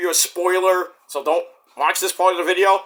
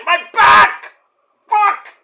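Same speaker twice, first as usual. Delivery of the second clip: higher, louder outburst of pain; pained yell; 13 semitones higher, 7 dB louder, much slower than usual. Retold or imitated. Sore dad yelping when kids want to play, loud. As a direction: bark it out as the back seizes.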